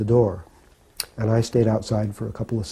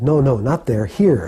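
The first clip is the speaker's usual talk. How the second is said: louder, acted-out redirecting; insistent correction; 3 semitones higher, 6 dB louder than usual. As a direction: wave the guest over with your voice. Acting Prabhupada directing George closer.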